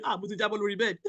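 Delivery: Yoruba quote squeezed out through laughter; laughing through quote. Retold or imitated. Mother-in-law falling off the bed: laughing Yoruba quote. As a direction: laugh while quoting her. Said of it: "I can remember saying".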